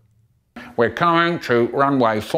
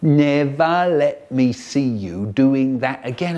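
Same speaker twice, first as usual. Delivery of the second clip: funny voice; 5 dB louder than usual. Retold or imitated. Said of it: "a funny voice going".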